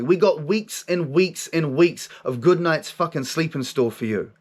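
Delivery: emphatic retold pep talk; forceful inner voice. Voice rallies him as he gives up, forceful. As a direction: imitate a forceful voice insisting he can cope. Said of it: "comes in with this force of energy".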